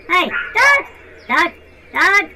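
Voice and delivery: shouted name; calling out. Pretend. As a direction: call across the field. Calling brother loudly.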